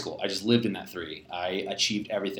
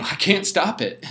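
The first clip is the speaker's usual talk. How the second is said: laughing; 8 semitones higher, 3 dB louder, slower than usual. Real, not acted. Admitting his habit, laughing.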